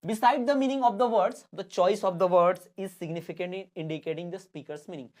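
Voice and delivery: slow, word-by-word reading; slow classroom dictation; dictation pace. Shown as a demonstration. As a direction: dictate it slowly for notes. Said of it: "dictation of definition".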